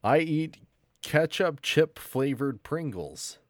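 mock Canadian accent. Shown as a demonstration. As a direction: try harder at a fake Canadian accent. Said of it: "seriously step it up".

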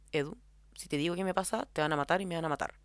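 retold deadpan warning, pitched a little low; completely serious. Woman confiding a deadly secret to Edu, completely serious. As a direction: say it gravely, with no hint of a joke. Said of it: "completamente seria".

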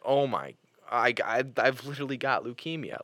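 mildly hammed-up dread; retold panic. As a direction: replay a spiraling health scare. Retold panic at leukemia scare.

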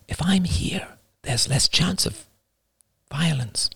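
put-on very high, soft little girl voice; a sorry young daughter, small and high; young daughter apologizing softly to her father. Daughter's voice again.

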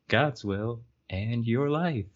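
slow, drawn-out game show title; game show host. Shown as a demonstration. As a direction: announce it like a quiz show. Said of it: "game show thing".

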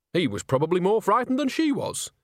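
lightly voiced defensive old witch. A narrator's reading. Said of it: "said Nanny defensively".

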